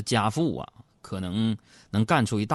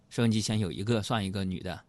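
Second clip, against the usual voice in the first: ordinary talk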